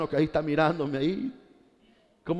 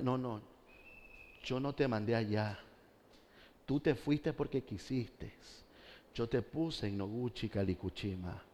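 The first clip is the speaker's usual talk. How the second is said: soft, low voice of God reproaching; God's stern rebuke; 4 semitones lower, 11 dB quieter than usual. Acted.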